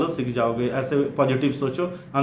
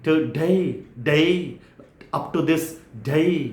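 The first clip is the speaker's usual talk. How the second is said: light British accent, today said "tuday" falling; a hint of a posh British accent on today and day; original British accent; much slower than usual. Shown as a demonstration. Teacher imitating an original British accent. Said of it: "मतलब बिल्कुल original British".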